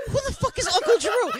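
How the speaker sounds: high, loud mock outburst of confusion; exasperated bafflement. Co-host retelling his reaction to Uncle Drew, baffled. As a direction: burst out with a baffled question.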